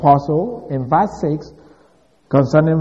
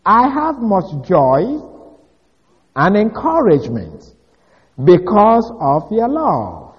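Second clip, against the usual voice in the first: slow, higher, deliberate reading of the verse; literal Greek reading; 4 semitones higher than usual. Shown as a demonstration. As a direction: spell out the Greek word order slowly. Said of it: "It says".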